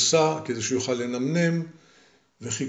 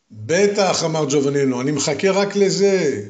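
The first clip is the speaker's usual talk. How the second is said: eager; 3 semitones higher, 4 dB louder than usual. Acted. Hero eagerly waiting.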